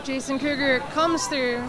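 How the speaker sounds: lively live sports call; play-by-play commentary. Real, not acted. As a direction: follow the action as it happens.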